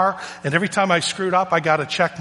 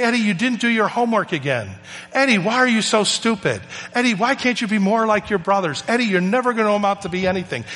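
higher-pitched mock scolding teacher; exasperated put-down in a raised pitch; imitated ridicule; 4 semitones higher than usual. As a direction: berate a pupil, as retold by a storyteller. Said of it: "she would ridicule him in class".

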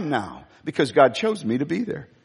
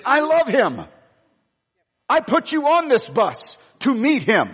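Spirit speaking; 5 semitones higher than usual. Retold or imitated. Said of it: "This is what the Spirit is saying".

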